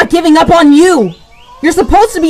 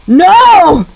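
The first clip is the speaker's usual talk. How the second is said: higher, loud, slow anguished plea; desperate cry; 5 semitones higher, 3 dB louder, much slower than usual. Acted. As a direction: cry out to stop him. Robin pleads as Batman strikes.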